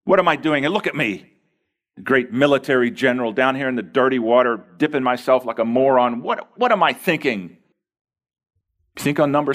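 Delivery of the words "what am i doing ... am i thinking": exasperated Naaman. Retold or imitated. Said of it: "on the sixth one he thought".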